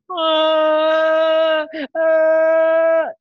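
long drawn-out fake wail; staged crying noise; demonstrated crying. Shown as a demonstration. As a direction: pretend to bawl on one held note.

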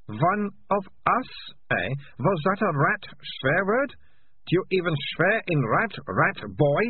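high, mocking girl's voice; taunting girl. A narrator's reading. Malicia mocking the rat boy, high voice.

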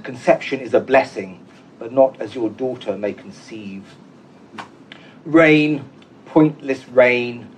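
measured, unhurried reading of a poem with pauses between phrases; poetry reading. Acted. Poet reads his Laforgue translation to the audience, measured poetry reading.

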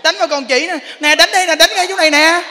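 wife goading husband to hit her; defiant wife. Retold or imitated. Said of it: "Có cô ở đây cũng có nè".

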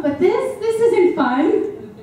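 high-pitched, drawn-out mom's lament; exasperated complaint. Retold or imitated. Mom retells her exasperated complaint.

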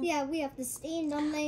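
restaurant order-taker with a put-on Chinese accent. Restaurant worker answering a customer, in a Chinese accent. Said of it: "the guy who's taking the order in the restaurant".

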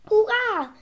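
high, loud hurrah; cheering call. A narrator's reading. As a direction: call out a drawn-out victory cheer. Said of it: "rief der Doktor Eibolet". (hoher, lauter Jubelruf)

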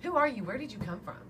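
demanding. Retold or imitated. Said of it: "And she said".

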